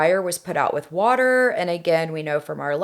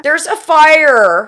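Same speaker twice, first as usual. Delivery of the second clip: put-on high, pleading frightened girl; 911 caller; 8 semitones higher, 10 dB louder, slower than usual. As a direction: beg for help, panicked. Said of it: "I am going to be Melissa".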